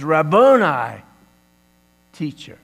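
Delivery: awed recognition. Acted. Mary recognizing Jesus.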